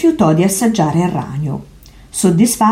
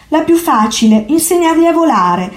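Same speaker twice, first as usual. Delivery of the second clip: higher, dry ironic lift; 10 semitones higher than usual. A narrator's reading. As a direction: say it with a wry twist. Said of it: "miagolò Zorba ironico".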